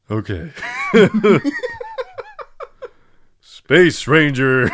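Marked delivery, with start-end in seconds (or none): 3.4-4.7 slow, drawn-out space hero impression; loud, stretched amateur celebrity impression; Tim Allen. Friend warming up an impression, slow hero voice. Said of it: "he gave me Tim Allen".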